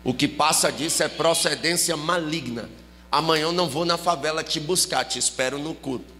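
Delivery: low-pitched, measured church-sister ultimatum; retold no-excuses summons with weighty pauses; stern summons. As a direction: lay down the law, lightly imitating her. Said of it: "olha a intimação dela".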